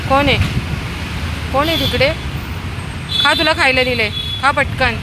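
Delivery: loud high calling; feeding street dogs, loud high calls. Real, not acted. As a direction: call the pups to eat, loud and high.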